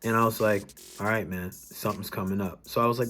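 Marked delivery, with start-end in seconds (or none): 1.0-2.7 low, soft reassurance; gently reassuring. Retold or imitated. To a man who started crying, gently reassuring. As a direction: drop low and quiet to settle him.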